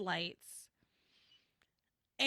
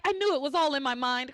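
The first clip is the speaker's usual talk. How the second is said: mock excitement; 3 semitones higher, faster than usual. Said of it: "She gets excited".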